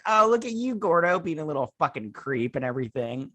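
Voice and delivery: high teasing opener dropping to mock scorn; jokey sarcastic ribbing. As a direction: tease him like a friend. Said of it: "And I was like".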